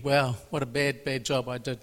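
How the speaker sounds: soft, dejected murmur to himself; inner thought. Retold or imitated. Preacher replaying his own gloomy thought after church, softly. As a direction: think it aloud, quietly disappointed. Lying in bed, thinking to himself.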